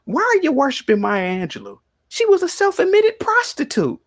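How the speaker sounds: high, loud retold outburst; scolding young ladies. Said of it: "when I told them".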